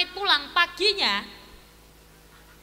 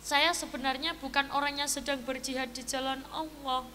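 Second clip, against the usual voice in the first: sad confession; 6 dB quieter than usual. Acted. Thug admits his lies to the father, softly sad. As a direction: own up quietly with regret. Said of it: "Sing premane langsung sedih".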